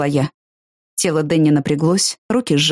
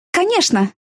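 pitched up, forced brightness; too high; 12 semitones higher than usual. Acted. She reassures Danny too brightly, pitched high. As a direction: cover your fear with a higher voice. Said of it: "Мой голос прозвучал выше, чем обычно".

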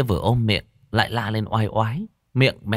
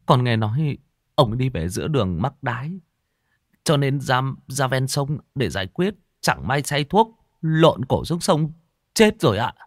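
slightly high, hesitant report; lightly voiced nervous underling; deferential servant; 5 semitones higher than usual. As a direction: report timidly to the master, voice lifted a little. Servant reports the death to master.

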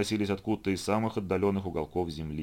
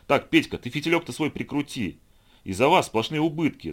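loud angry scolding, pitched higher; hissing at him; 6 semitones higher, 5 dB louder than usual. A narrator's reading. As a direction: snap at a subordinate, voice rising. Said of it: "зашипел на него зам".

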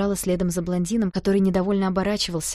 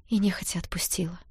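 whisper; 5 dB quieter than usual. A narrator's reading. Narrator whispers reluctant release.

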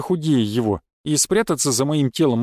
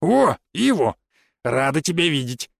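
kindly welcome. A narrator's reading. Marta welcomes a young visitor, kindly. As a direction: greet a guest with a kind smile. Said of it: "по-доброму улыбнувшись".

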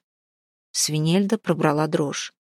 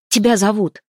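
breathless call; 4 semitones higher, 4 dB louder than usual. Acted. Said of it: "задыхаясь, крикнула она".

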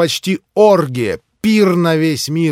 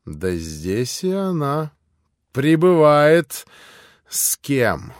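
a hint of a sly innkeeper; innkeeper speaking. Innkeeper voiced in reading.

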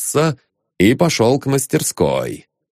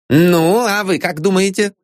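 ironic; 8 semitones higher than usual. A narrator's reading. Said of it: "ироническая улыбка".

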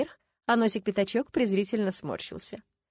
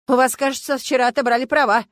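louder, smug teasing remark; smirking; 5 semitones higher, 8 dB louder than usual. A narrator's reading. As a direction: needle them with a grin. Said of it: "ухмыльнулся он".

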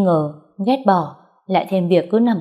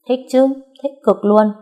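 bright, eager yes, pitched up and louder; excited; 6 semitones higher, 4 dB louder than usual. Acted. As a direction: gush with delight. Narrator voices excited reply. (hào hứng, giọng cao và to)

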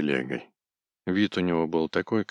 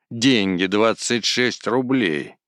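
higher and louder furious rant; angry yelling; 5 semitones higher, 5 dB louder, slower than usual. A narrator's reading. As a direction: hurl the insult in a rage. Кузьма yelling, quarreling.

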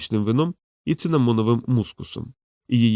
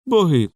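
groan; 6 semitones higher, 4 dB louder than usual. A narrator's reading. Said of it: "застогнав Лок".

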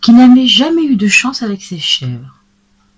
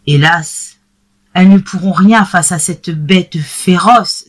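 exclaiming. Acted. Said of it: "s'exclama monsieur Seguin".

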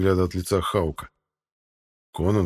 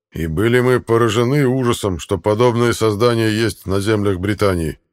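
booming warrior king; 2 semitones higher, 7 dB louder than usual. A narrator's reading. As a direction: boom it out, rage barely contained. King tells tale. (громогласный король, сдерживающий ярость)

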